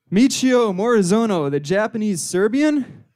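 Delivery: questioning echo, stretched at the end; incredulous miner. Acted. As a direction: repeat the name in mock disbelief. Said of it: "And the guy is just like".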